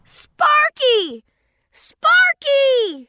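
high worried call. Acted. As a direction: call after him in alarm. Brother floats away.

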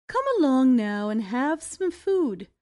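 put-on gently coaxing old woman; lightly voiced kind granny, coaxing. Old woman urges hungry Jack to eat, gentle coaxing. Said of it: "she coaxed".

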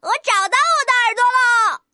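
delighted little rooster's exclamation; happy cheering. Acted. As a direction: celebrate a joyful discovery. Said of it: "小公鸡开心地欢呼起来".

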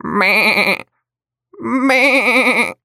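high bleating meh; lamb bleat. Acted.

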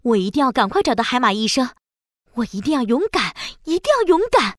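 fast, resolute self-encouragement; determined and urgent. Acted. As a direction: steel yourself, hurry. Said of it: "一点都不怕". (坚定又着急)

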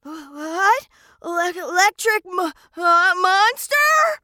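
stammering in fright; terrified stammer. Acted. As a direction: stutter out the words, scared. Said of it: "so terrified he started to stammer".

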